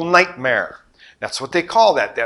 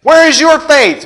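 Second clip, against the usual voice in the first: louder; 8 semitones higher, 5 dB louder than usual. Retold or imitated. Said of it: "God is saying".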